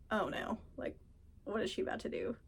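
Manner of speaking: mock worried whisper. Mom and I look worried.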